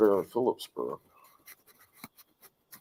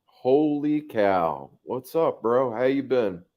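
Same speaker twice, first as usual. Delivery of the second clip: surprised greeting; 4 semitones higher, slower than usual. Real, not acted. Surprised to see old friend.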